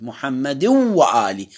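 محمد وآل slowed, tanwin merged into the waw; slow assimilation. Shown as a demonstration. Teacher slowing down to show the merge. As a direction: stretch محمد وآل and drop the nun. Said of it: "ما قلت محمد".

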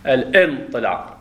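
الانطلاق said slowly and carefully; slowly showing where the hamza goes; slow hamza demo. Shown as a demonstration. Teacher slowly saying the word for students. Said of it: "همزة القطع طلعها من قلبك".

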